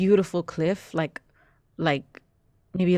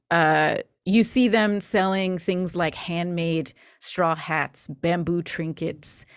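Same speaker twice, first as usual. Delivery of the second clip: story narration. Acted. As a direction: paint the scene for the players. GM narrates scene setting.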